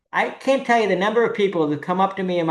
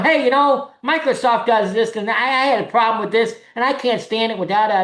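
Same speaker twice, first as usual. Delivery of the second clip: mock complaining fan; 3 semitones higher than usual. Imitating a pest griping at Bill Gates, hammed up. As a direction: rattle off complaints like an overeager pest. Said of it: "would you be going up to him going".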